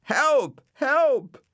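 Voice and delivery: high, loud panicked calls; cry for help. A narrator's reading. Dougal clinging to the aerial calls for help, high and loud. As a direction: yell for rescue from the roof.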